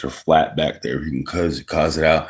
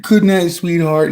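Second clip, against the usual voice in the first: Donald Duck voice; 12 semitones higher, 3 dB louder than usual. Acted. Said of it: "I just translated".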